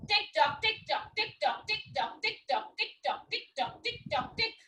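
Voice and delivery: high, soft sing-song chant; high sing-song tick tock. Shown as a demonstration. Teacher chanting high and soft to the class. Children's clock movement chant.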